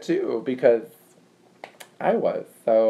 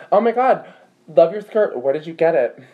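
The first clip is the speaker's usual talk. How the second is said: high-pitched gushing queen-bee compliment; acted girly enthusiasm, starting high and easing down; Regina; 5 semitones higher, 3 dB louder than usual. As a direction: gush over it like a popular teen girl. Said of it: "I'll be doing both parts".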